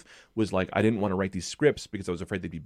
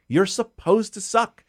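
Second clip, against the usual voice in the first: higher, louder and slow on suck; emphatic; 11 semitones higher, 6 dB louder, slower than usual. Real, not acted. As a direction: lean hard into suck. Emphatic advice punchline.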